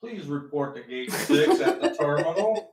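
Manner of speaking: over the intercom. Pretend. Mock airport announcement.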